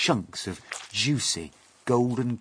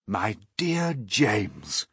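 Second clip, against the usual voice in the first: affectionate; 3 semitones higher, 4 dB louder, much slower than usual. Acted. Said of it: "laying a front leg affectionately".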